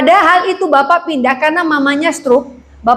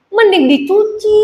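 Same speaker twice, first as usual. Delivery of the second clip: pointed retort; 5 semitones higher than usual. Retold or imitated. Acting own retort to friend.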